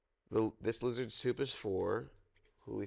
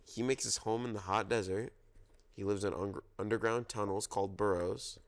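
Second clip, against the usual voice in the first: storytime reading. Acted. Reads zoo picture book aloud.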